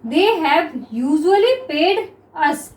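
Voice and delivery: very slow, syllables stretched; slow classroom dictation. Shown as a demonstration. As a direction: read slowly so students can follow. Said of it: "ठीक है students".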